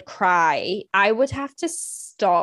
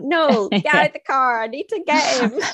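high, insistent urgent order; urgent demand; 7 semitones higher, 3 dB louder than usual. Retold or imitated. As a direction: demand it like there's no time to lose. Urgent demand to husband retold.

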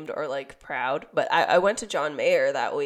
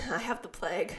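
raspy sick voice; 2 semitones higher, 6 dB quieter than usual. Real, not acted. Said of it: "your raspy, sick voice".

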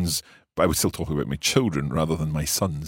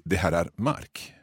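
slow demo; slower than usual. Shown as a demonstration. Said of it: "you can just say".

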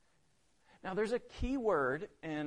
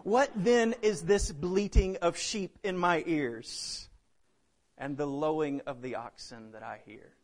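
sarcastic; 3 dB louder than usual. Acted. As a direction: draw out the sarcasm, then let it drop. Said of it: "Samuel says in this classic note of sarcasm".

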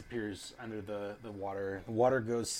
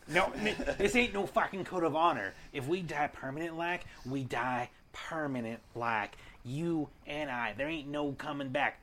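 heated pleading; 4 semitones higher, 5 dB louder than usual. Acted. Character scolds the reckless companion.

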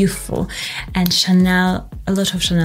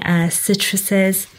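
usual speaking voice

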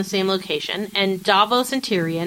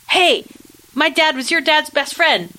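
put-on a cocky young guy bursting in, pitched way up; brash Marlboro Man; 8 semitones higher than usual. Gendry barging in on Jon, hammed-up brash greeting. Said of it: "literally the Marlboro Man".

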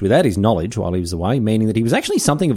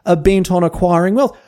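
reading Darwin's diary; 7 semitones higher, 4 dB louder than usual. Acted. Host reads Darwin's diary aloud to listeners, in a mock solemn higher voice. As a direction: intone Darwin's words with mock gravity. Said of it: "have a listen to this".

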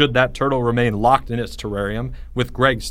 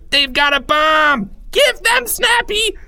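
slow, high, loud screamed warning; panicked scream; 4 dB louder, slower than usual. A narrator's reading. Third graders panicking over a bomb, screaming. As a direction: scream each word out in terror. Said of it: "screamed a third grader".

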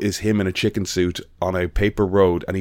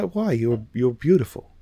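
performer's outrage; 5 semitones higher than usual. Retold or imitated. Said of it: "And she went".

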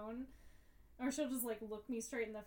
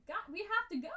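exasperated call; 8 semitones higher, 6 dB louder, faster than usual. Retold or imitated. Impatient call to the dog.

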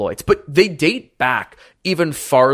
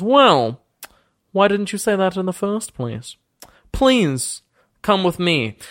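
higher, pompous noble voice, suddenly gracious; boastful lord Thaddeus; 6 semitones higher than usual. Acted. Lord welcomes the party after the deception, pompous and higher. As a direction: play a smug ancient lord welcoming guests.

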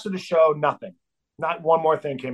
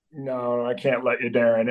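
calm bodyguard; 4 semitones lower, 3 dB quieter than usual. Retold or imitated. Huge bodyguard calmly blocking him.

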